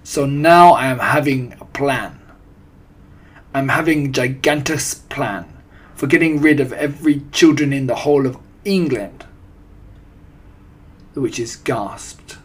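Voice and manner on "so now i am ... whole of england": put-on loud, commanding accented villainess; imperious witch addressing her followers; Grand High Witch. A narrator's reading. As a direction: announce a grand scheme forcefully. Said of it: "barked the Grand High Witch".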